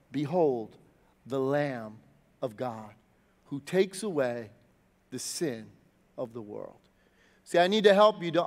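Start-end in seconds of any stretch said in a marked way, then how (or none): 0.1-6.8 hushed proclamation. Retold or imitated. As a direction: announce it in reverent awe. John proclaims the Lamb.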